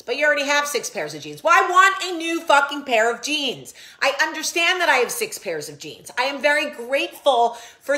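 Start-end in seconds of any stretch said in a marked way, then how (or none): 1.4-3.7 mock outrage. Mock scolding about jeans.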